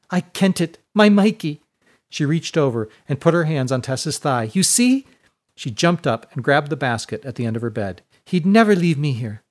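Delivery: high, loud bursts of joy; overjoyed. Acted. Ashlyn, sure Mikey came for her, high and joyful. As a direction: squeal it out with delight. Ashlyn learns she is going home.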